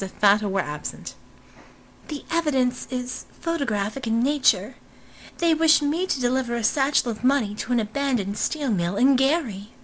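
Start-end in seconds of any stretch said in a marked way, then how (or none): 2.1-9.7 higher, haughty society-lady voice; haughty heiress. Acted. Robinson dismissing Fata, high haughty heiress voice. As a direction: play her as a high, aloof blonde.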